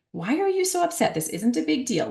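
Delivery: imitated high-pitched, well-meaning brush-off; dismissive parent. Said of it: "somewhat dismissive reactions".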